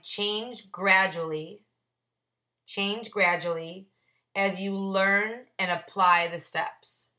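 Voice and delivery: slow, word by word, as if reading his own margin note; slow deliberate reading. Shown as a demonstration. Sponsor reading his margin note to the meeting, slow and deliberate. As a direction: spell out the note slowly for the group. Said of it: "I wrote on the side".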